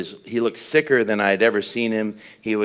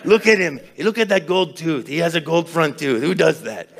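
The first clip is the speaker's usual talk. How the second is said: high-pitched, incredulous mock host; Luis Palau; 8 semitones higher than usual. Host showing off his friend's gold tooth, high put-on voice. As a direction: exclaim high, as if pointing out a marvel. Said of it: "Luis always like".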